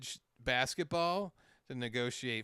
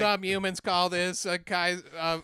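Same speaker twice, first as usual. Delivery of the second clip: loud, raised alien character voice; Alien Sling Blade; 4 semitones higher, 7 dB louder than usual. Acted. Friends riffing on alien monologues, Alien Sling Blade voice. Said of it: "Alien Sling Blade".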